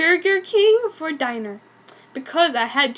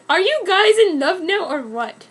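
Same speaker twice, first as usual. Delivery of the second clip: excited; 6 semitones higher, 5 dB louder than usual. A narrator's reading. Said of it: "she screamed".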